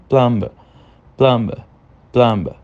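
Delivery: "Plumber" with a very weak B after the M; B bem fraquinho. Shown as a demonstration. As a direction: let the B in "Plumber" nearly vanish. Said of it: "a entonação dele é bem fraquinha". ("Plumber" com o B bem fraquinho)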